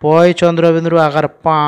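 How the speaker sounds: পা held long with a nasalised a; nasal vowel. Shown as a demonstration. Teacher demonstrating the nasal sign, long nasal পা. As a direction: end on পা sounded through the nose. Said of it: "উচ্চারণটা আমরা একটু নাকের মাধ্যমে করবো".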